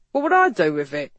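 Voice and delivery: loud, puzzled officer's voice; gruffly baffled constable; frowning constable. A narrator's reading. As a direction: ask it with a grumpy frown. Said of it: "McSheehy asked with a frown".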